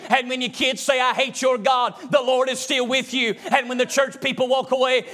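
rising preaching cadence, repeated refrain; a preacher building to a rousing close; building sermon climax. Real, not acted. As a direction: drive the refrain home again and again.

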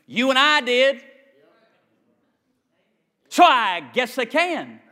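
loud, emphatic preacher's questioning. Acted. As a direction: build the point up for the congregation. Preaches to congregation.

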